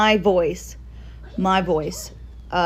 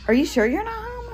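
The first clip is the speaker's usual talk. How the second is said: much higher, questioning quote voice; high quoting voice. Retold or imitated. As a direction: pitch up high for the friend's line. Friend asks suspiciously in retelling.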